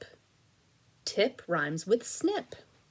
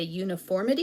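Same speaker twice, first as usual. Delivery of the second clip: "uniformity" run together fast as one word; fast blended word after the syllables; blended quickly; faster than usual. Shown as a demonstration. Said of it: "push them together".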